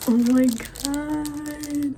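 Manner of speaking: very slow stretched amazement; amazed. Real, not acted. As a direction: draw out the words in awe. Seeing the remote.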